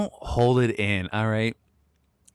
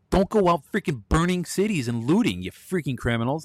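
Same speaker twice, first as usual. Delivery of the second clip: higher-pitched angry outburst at rioters; angry rant; 5 semitones higher than usual. Real, not acted. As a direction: scold them, pitch rising. Ranting at rioters.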